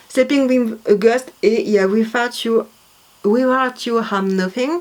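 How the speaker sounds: album titles in heavily French-accented English; bad English accent. Real, not acted. Reading a band's album titles to viewers, real bad French-accented English. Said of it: "mon accent anglais, il est éclaté au sol".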